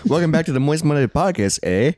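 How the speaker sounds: put-on Canadian accent. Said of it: "I'm trying to do, like, uh, a Canadian accent".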